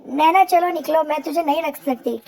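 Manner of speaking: हल्की सी कड़क सौतेली माँ की आवाज़; ऊँची आवाज़ में डाँटकर घर से निकालती माँ. Acted. Stepmother throws Naina out. (बच्चों को भगाती सौतेली माँ, हल्की डाँट)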